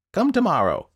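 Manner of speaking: loud curt order through the door; loud dismissal. Acted. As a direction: send him away loudly. Wilde dismisses visitor.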